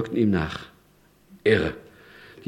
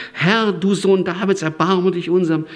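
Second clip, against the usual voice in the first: hopeful plea; 6 semitones higher than usual. Retold or imitated. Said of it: "da steckt ihre ganze Hoffnung".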